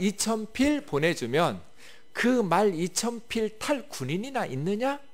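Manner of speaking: scornful commander jeering at the enemy; mocking taunt. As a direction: taunt them as if they have no soldiers. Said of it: "이렇게 조롱하고 있어요".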